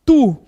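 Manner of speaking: "tu" set apart after a pause; stress on TU. Shown as a demonstration. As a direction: land firmly on "tu". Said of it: "Em primeiro lugar, ele coloca". (ênfase em "tu", destacado por pausa)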